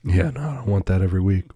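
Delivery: hoarse sick voice; rough, raspy throat; smoker's rasp. Real, not acted. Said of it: "a smoker's cough voice".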